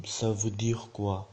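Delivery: slow, drawn-out French question; slow model pronunciation. Shown as a demonstration. Teacher showing learners the casual variant, slowly. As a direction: take it word by word.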